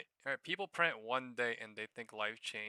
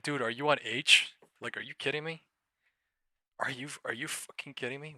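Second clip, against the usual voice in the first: louder, incredulous mimicry; mocking chat quote; 4 semitones higher, 8 dB louder than usual. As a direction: parrot the viewer like he's ridiculous. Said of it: "He said".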